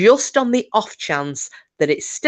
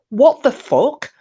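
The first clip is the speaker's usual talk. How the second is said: slow disbelief; 8 semitones higher, 5 dB louder, slower than usual. Retold or imitated. Gesturing at John in disbelief.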